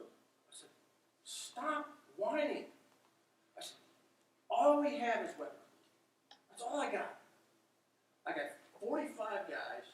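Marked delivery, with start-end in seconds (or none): 1.2-2.6 slow, higher-pitched stern order; stern rebuke. Retold or imitated. Lieutenant cutting off his sergeant's whining, stern. 4.5-9.9 higher, punched-out insistence; emphatic insistence. Retold or imitated. Lieutenant telling his sergeant what he's got, emphatic. Acted rebuke of complaining sergeant.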